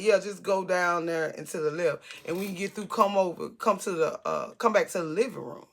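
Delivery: low casual directions. Retold or imitated. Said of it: "That's what he said, like that".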